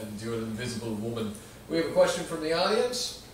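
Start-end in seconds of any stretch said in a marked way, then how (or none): 0.0-1.3 put-on Dracula accent; Doctor Doom. Supervillain announcing he will steal your country, Dracula accent. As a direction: play the villain with a mock Dracula accent. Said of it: "I always imagine him similar to Dracula".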